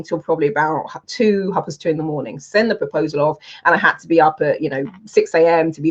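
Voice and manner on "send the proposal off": ordinary talk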